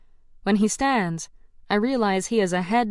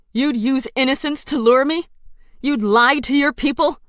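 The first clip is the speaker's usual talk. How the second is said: higher, accusing questions; mild angry disbelief; indignant challenge; 5 semitones higher, 4 dB louder than usual. Acted. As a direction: confront him with outrage. Heroine confronts the villain.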